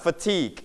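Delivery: "Fatigue" with the weight on "-tigue"; stress on second syllable. Shown as a demonstration. Teacher shows students the stress of "Fatigue", fa-TIGUE. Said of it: "we stress on the second syllable".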